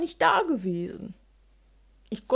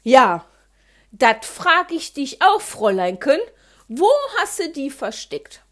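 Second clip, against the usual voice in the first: father scolding; 7 dB louder than usual. Acted.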